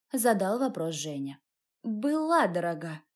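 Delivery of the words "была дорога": slow, tipsy words broken by a hiccup; drunken hiccup. Acted. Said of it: "икнула я".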